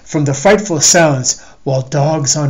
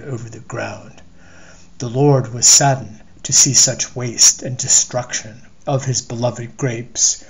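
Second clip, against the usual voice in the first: scripture-style story reading. A narrator's reading. Reading his story to listeners, solemn and measured. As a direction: read it like an old scripture.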